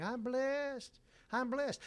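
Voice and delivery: mock blessed claim. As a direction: imitate someone chirping that they are blessed. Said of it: "coming in here saying".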